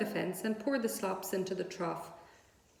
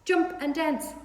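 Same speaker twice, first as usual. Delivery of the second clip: high, loud crowing call; rooster calling; 8 semitones higher, 5 dB louder, slower than usual. A narrator's reading. Rooster calling to Wilbur. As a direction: crow it like a rooster. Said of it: "said the rooster".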